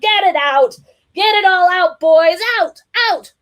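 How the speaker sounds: high loud cheering; loud high get it out; egging on. A narrator's reading. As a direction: urge the boys on. Egging kids on.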